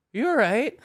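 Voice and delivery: high called-out check-in; calling out. Retold or imitated. Calling to a fallen roommate, high and loud. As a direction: shout across to see if she's okay.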